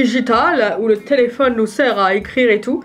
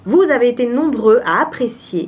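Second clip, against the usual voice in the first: voice-over read. Shown as a demonstration. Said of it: "Je vais faire mes entraînements de théâtre".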